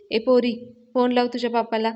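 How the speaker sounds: loud, bossy order; constable shouting. Retold or imitated. Constable orders Avani to call her father, shouting. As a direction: demand it like a cop who won't listen.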